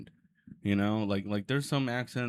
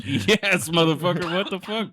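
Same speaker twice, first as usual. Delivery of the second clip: half-shouted indignant comeback, higher and louder; retelling an annoyed reply to a stranger, mock outraged; mock angry retort; 6 semitones higher, 5 dB louder than usual. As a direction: snap back at the nosy question, mock outraged. Retold angry retort to a question.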